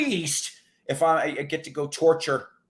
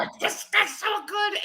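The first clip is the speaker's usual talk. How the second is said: Bob Hope impression. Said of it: "Dave Thomas's Bob Hope".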